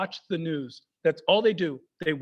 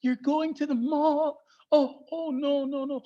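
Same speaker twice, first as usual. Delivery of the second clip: higher, slow, dreading; mock horrified dad; 5 semitones higher, slower than usual. Dad repeats mall in mock dread. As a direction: repeat it slowly like a doomed prophecy. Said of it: "He says it like".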